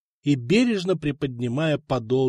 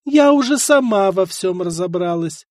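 твёрдо; 5 semitones higher, 6 dB louder than usual. Acted. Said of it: "твёрдо ответила Мария".

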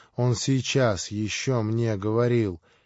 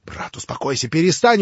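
begging, rising to a louder cry; pleading urgently; 6 semitones higher, 6 dB louder than usual. A narrator's reading. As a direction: beg him to stop. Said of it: "упрашивал Алёша". (упрашивая, с тревогой)

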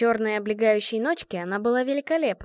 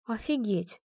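на выдохе; 4 dB quieter, slower than usual. A narrator's reading. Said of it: "выдохнула Вита".

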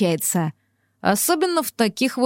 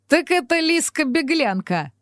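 put-on higher, laughing old-man exclamation; booming chuckle; 5 semitones higher than usual. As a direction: chuckle it out, amused. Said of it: "Гулко хохотнул мистер Кузнечик".

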